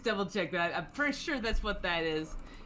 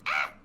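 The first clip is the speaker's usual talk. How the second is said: short, abrupt cry; startled yelp; 5 dB louder than usual. Acted. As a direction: yelp as you get chased out. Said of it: "And he just goes".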